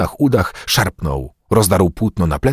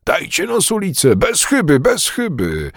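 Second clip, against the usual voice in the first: roaring; 10 semitones higher than usual. A narrator's reading. Bugaj demands a spear from the crowd, roaring. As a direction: call out high, as if roaring. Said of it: "Bugaj ryczał".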